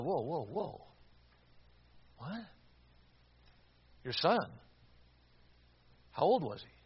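hushed, halting shock; quiet, taken-aback questions; stunned. Retold or imitated. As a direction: softly retell disbelief, pausing between each question. Stunned reaction to a son's death.

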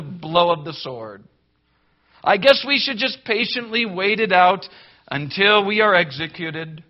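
a hammed-up shrug of surrender; mock resigned sigh. Preacher mocking a believer who gives up, sarcastic.

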